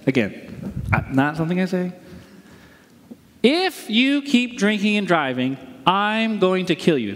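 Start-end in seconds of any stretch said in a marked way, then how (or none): 3.4-7.1 deliberate, menacing demonstration; threat. Shown as a demonstration. Pastor illustrating a threat to the congregation, threatening. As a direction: spell it out as a personal threat. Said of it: "That would be a threat".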